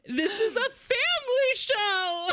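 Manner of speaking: high, drawn-out mock outcry through laughter; laughing imitation of a scandalized protest. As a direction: cry it out slowly, cracking up. Imitates embarrassed singer's protest, laughing.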